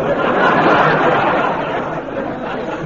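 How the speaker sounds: airless, wheezy chuckle; a sly, voiceless cackle; breathy dry laugh. Acted. Frazer mocking Jones's manure slip, a breathy wheezy chuckle.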